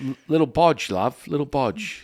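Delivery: high, loud cutesy pet voice; silly put-on voice. Host cooing a pet name at his co-host, high and silly. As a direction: squeak it out like a goofy nickname.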